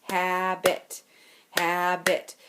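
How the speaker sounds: habit said in two clear beats; syllables clapped out. Shown as a demonstration. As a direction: tap out habit for the class. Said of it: "how many syllables does habit have".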